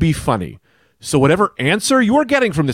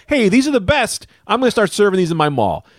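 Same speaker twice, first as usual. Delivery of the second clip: higher-pitched mock enthusiasm; raving customer; 7 semitones higher than usual. Imagined walk-in customer raving about the sandwiches, mock excited. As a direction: play an eager customer discovering a great find.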